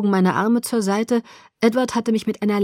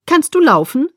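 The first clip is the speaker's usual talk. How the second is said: concerned; 7 semitones higher, 6 dB louder than usual. A narrator's reading. Worried teacher to faint student.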